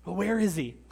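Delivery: mocking challenge, punched then dropping away; sarcastic taunt. Nations imagined mocking Israel's powerful God, sarcastic taunt. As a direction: needle them with mock puzzlement. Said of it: "almost hear the sneer of sarcasm".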